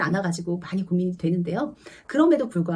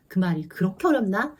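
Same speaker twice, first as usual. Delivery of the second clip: normal talking voice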